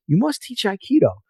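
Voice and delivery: an old sensei imitated, urging harder; insistent repeated plea.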